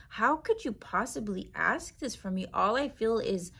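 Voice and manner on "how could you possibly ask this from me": indignant plea to God; hurt believer protesting. Acted. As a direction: ask it as if God asks too much.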